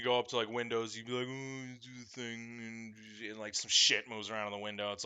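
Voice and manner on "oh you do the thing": mock amazement. Mocking himself at the wand windows.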